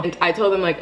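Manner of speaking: ordinary talk, nothing marked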